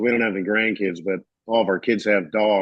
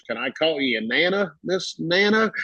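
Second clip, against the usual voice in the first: timid polite request; 6 semitones higher than usual. Retold or imitated. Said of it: "He goes".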